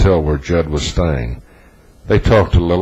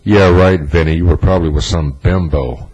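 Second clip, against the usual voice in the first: acting cool; 4 dB louder than usual. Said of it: "but she acted cool".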